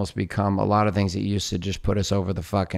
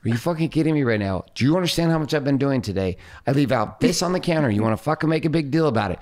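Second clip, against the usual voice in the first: irritated rant; 5 semitones higher than usual. Retold or imitated. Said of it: "I'd be like".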